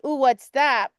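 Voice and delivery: lightly voiced curious dog perking up; a hint of a dog noticing something. Owner showing how her dog reacted, lightly curious. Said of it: "he was like".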